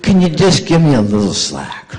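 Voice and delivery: laughing while asking a favor; half-laughing, pleading for slack; laughing plea. Retold or imitated.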